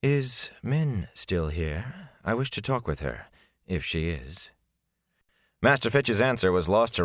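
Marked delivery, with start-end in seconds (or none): 0.0-4.5 a gentle young man's voice, lightly voiced; soft character voice. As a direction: ask quietly after her. Character voice in narration.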